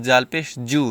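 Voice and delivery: জাল and জু with a hard j, just like জিম; wrong pronunciation. Shown as a demonstration. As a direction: say জাল পেশ জু with an ordinary j. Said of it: "একই রকম হয়ে যাচ্ছে".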